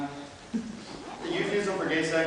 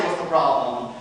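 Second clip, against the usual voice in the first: controlled question through clenched teeth; forced calm; 5 semitones lower, slower than usual. Acted. Parent questions hospital nurse, forced calm. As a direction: drop into a fake-smile politeness, holding anger back. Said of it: "Calmly, clenched teeth, fake smile, I say".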